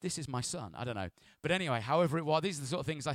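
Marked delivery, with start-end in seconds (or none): 0.0-0.8 voice of God. Shown as a demonstration. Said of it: "no, maybe it's more like".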